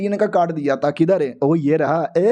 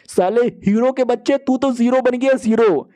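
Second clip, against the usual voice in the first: mocking gloat; 4 semitones higher than usual. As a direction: crow over the rival. Hero gloats at rival.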